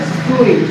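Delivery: स्वीट as 'soo-eet'; correct pronunciation. Shown as a demonstration. Teacher drills students, carefully pronounced. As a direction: let स्वीट glide into a long 'eet'. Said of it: "क्या बोला जाता है?".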